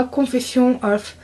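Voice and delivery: slow English with a French accent; rotten English accent. Real, not acted. Vlogger reading out a bronzer shade, slow French-accented English. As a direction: stumble slowly through English in a French accent. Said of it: "Moi et mon accent pourri".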